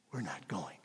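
hushed Moses. Acted. Moses telling God he won't go, whispered. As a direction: breathe it as a firm secret.

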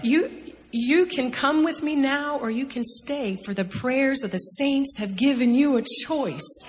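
high, slow, emotional delivery; overcome with emotion. Retold or imitated. Retelling the Lord's offer of a choice, deeply moved. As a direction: draw out each phrase, voice lifted high.

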